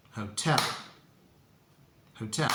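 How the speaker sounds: hotel, round O, stress on TEL; hotel with the second syllable stressed; correct model. Shown as a demonstration. Teacher repeating the correct hotel for learners. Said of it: "nice round O ... stress is on the second syllable".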